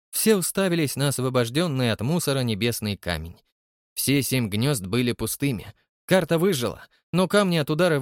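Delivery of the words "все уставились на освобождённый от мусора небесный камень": ordinary delivery, nothing marked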